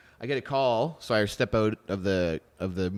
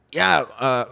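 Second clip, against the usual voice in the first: put-on French accent; 3 semitones higher, 6 dB louder than usual. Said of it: "stop doing his accent".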